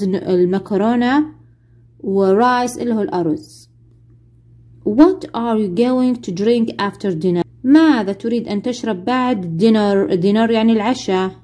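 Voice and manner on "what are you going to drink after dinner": each English word spelled out slowly for the class; very slow model reading. Shown as a demonstration. Teacher playing flight attendant, very slow model question. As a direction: read it slowly so pupils can repeat. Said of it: "سؤال زايد".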